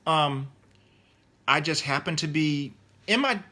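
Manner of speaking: ordinary talk, nothing marked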